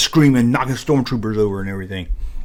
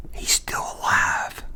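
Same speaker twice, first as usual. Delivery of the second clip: hushed whisper in a dark theater; 8 dB quieter, slower than usual. Retold or imitated. Whispering to his friend during the movie. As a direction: breathe it out under your breath. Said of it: "And I whispered that".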